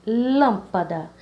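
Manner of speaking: lâmpada, drawn out slowly, syllable by syllable; slowed syllable by syllable. Shown as a demonstration. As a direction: stretch out lâmpada slowly for the class. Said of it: "vamos começar do final". (lâmpada bem devagar, sílaba por sílaba)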